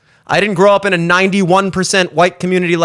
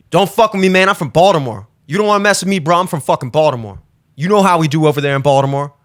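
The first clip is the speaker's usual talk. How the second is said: mock tough guy; 5 semitones lower, faster than usual.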